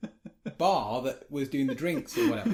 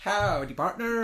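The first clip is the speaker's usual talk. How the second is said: cowboy greeting; 7 semitones higher, 5 dB louder, slower than usual. Pretend. Cowboy greeting for each follower.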